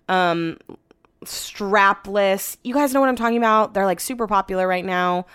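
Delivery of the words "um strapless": breathy unvoiced aside; whisper. Real, not acted. Vlogger whispering the swimsuit style to viewers. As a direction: whisper it like a secret.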